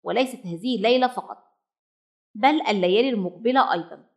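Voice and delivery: a firm, mildly stern mother. Acted. Mother cuts off her hungry chick, sternly. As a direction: lay down the rule without room to argue. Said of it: "قائلة في صرامة".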